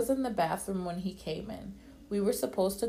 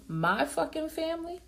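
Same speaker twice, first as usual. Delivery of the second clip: a high, strained furious yell; top of his lungs; 10 semitones higher than usual. A narrator's reading. Sean yelling at her over the producer, furious. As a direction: scream it out full force. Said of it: "At the top of his lungs".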